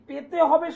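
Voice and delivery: পেতে হবে said with firm emphasis; stress on পেতে হবে. Real, not acted. Astrologer assuring viewers they will get results, stress on পেতে হবে. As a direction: lean hard on the words পেতে হবে. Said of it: "শব্দটা আমি এতটা জোর দিয়ে বলি".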